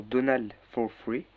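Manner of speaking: slow words in a clumsy English accent. Shown as a demonstration. Tutoriel, il lit le bouton du site avec un accent anglais maladroit. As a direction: sound out the English name like an anglophone, awkwardly. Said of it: "Désolé pour l'accent anglais".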